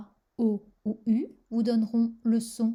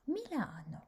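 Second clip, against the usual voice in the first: Milano with a stretched, stressed LA; stress on second-last syllable; 4 semitones higher, 8 dB quieter than usual. Shown as a demonstration. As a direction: lean on LA in Milano. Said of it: "sur l'avant-dernière syllabe". (accent tonique sur « la » dans Milano)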